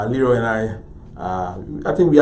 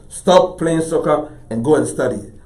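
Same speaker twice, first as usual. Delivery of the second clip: imitated parent, mildly stern and louder; scolding parent; 4 semitones higher, 5 dB louder than usual. Parents to child playing soccer, lightly imitated scolding. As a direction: order it firmly, like a parent. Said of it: "your parents would say".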